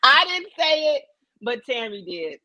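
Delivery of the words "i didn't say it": laughing through the words; giggling as she spills it; high laughing gossip. Real, not acted. Laughing while telling gossip.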